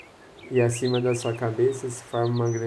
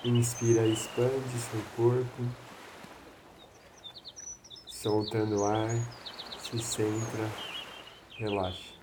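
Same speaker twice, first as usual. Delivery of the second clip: soothing spa whisper; 5 dB quieter than usual. Acted. Breathing guidance, voice drops softer.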